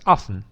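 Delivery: OFTEN reduced to OFF-un; T suppressed. Shown as a demonstration. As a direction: say just OFF-un for OFTEN, no T. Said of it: "suprimir o D, o T". (often com o T suprimido, "ófen")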